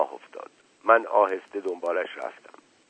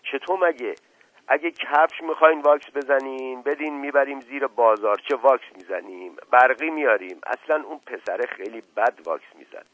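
higher-pitched helpful servant; chatty, oblivious servant; 5 semitones higher, 4 dB louder than usual. Acted. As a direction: offer advice eagerly in a raised voice.

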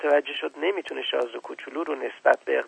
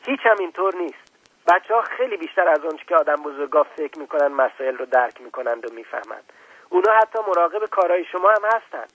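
put-on raised, higher child voice; loud; 3 semitones higher, 5 dB louder than usual. Little prince protesting to the scientist, raised higher voice. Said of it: "با صدای بلند گفت".

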